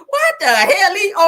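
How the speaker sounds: high, loud, slow mock granny shriek; hammed-up granny cry. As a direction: drag it out like a scandalised granny. Repeating granny's line loudly.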